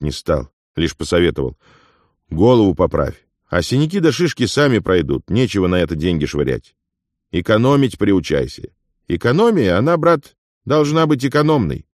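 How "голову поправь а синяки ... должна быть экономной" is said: higher, brisk voice for a chatty ghost; a lively, knowing companion; Afonya, lively friend. Acted. Afonya lectures beaten Ilya about money, higher and brisk.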